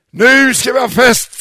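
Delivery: loud, festive call; joyful announcement. Acted. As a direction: throw open the celebration. Father announces party. (glatt utrop)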